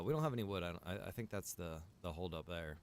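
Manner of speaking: ordinary delivery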